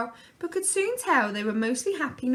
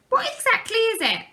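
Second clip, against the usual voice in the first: high nervous question; nervously; 11 semitones higher, 6 dB louder than usual. A narrator's reading. Mum asking about the burning smell, nervous and high. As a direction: ask it anxiously, higher. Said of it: "asked Missus Large nervously".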